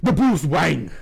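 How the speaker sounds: loud mock Asian accent impression; imitating an Asian accent, proudly. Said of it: "he speaks in an Asian accent".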